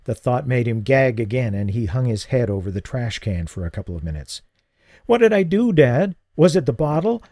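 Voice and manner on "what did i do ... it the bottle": high, frightened pleading; a boy terrified he hurt his father; distraught son. Acted. Son begs his poisoned dad to say what happened, high and scared.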